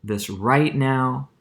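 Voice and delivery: "right now" drawn out slow and leaned on; teacher stretching out "right now" for emphasis; stress on right now. Shown as a demonstration. Teacher to class, stressing "right now" slowly. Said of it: "that's why I'm emphasizing this currently".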